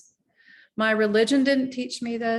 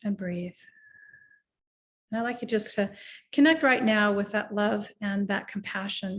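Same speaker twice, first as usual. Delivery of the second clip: guided meditation. Acted. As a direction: ease the listener into their body.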